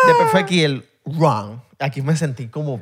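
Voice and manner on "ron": RON with an English R, like "rung"; R gringa. Retold or imitated. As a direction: say RON as an American would. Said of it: "yo aquí me sentí en mi casa". (ron con erre gringa, sin vibrar)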